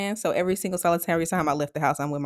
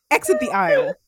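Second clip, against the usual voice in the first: shrill order. Retold or imitated. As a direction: hiss it like a desperate order. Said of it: "ordering dad out".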